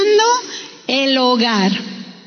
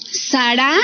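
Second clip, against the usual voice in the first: Sara stressed on the last A, rising; stress on final A; 3 semitones lower than usual. Shown as a demonstration. Preacher repeating the Hebrew name, Sara stressed on final A. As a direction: lift the final syllable of Sara, sa-RA. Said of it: "con acento en la última A".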